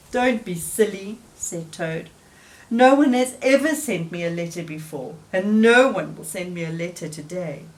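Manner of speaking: glum Toad voice. Acted. Toad voiced apart, gloomy.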